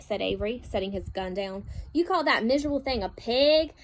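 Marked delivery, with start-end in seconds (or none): 1.9-3.7 louder, mocking boy; scoffing boy. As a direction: sneer at the tiny pig.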